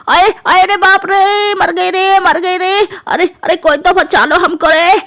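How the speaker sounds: slow, drawn-out mock moan; pained wailing. Mother-in-law moaning after her injection, pained wailing. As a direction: wail it out in hammed-up agony.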